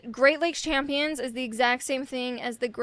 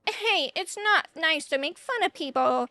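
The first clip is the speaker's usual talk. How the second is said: lightly offended scolding, higher pitch; acted Squirrel Girl; 4 semitones higher than usual. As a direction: chide a bully with mock hurt. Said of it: "the squirrel girl's like".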